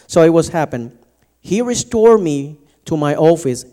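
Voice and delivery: lightly formal reading voice; scripture reading. Acted. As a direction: proclaim the passage to the church. Reads Genesis aloud.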